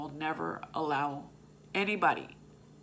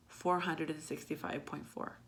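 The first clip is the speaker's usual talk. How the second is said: softer, letting the number sink in; a quiet, weighty repeat; repeated softly; 6 dB quieter than usual. Real, not acted. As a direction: say it again, hushed and heavy. Repeats her starting weight, hushed.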